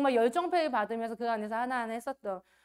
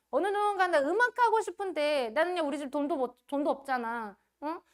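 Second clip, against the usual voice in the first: whiny, higher complaining voice; complaining youngster; 4 semitones higher, 4 dB louder than usual. Retold or imitated. A young musician whining about having no money. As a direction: grumble like a broke young dreamer, faster at the end. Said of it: "이렇잖아".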